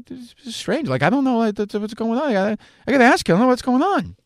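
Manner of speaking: high-pitched, hesitant mock protest; Rich Keefe. Flustered actor protests to his friend's aggressive mom, high and stammering. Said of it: "Rich Keefe in, like, one of these scenes".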